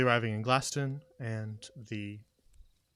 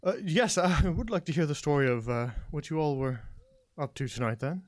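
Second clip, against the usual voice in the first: lightly voiced tentative townswoman; slightly raised, halting character voice; politely probing, a little unsure; hesitant character; 2 semitones higher than usual. Game master plays a character.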